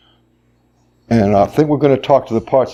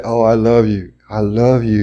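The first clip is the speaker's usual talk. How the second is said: gently lowered, tender demonstration; loving voice. Shown as a demonstration. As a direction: speak as if to a lover. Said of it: "when you love your lover".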